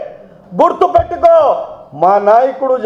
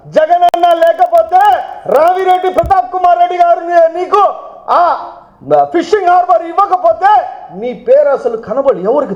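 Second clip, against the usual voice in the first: raised, heated shouting at the rival; angry shout; 3 semitones higher than usual. Real, not acted. Politician berating a rival MLA at a press meet, angry shout. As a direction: yell the accusation in anger.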